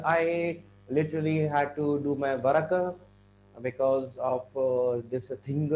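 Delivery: extra "uh" tacked onto final words like "thing"; stressed word endings. Shown as a demonstration. Teacher imitates how some people talk, over-stressed endings. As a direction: drag out the last word, "thing-uh". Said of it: "Don't stress on the last word".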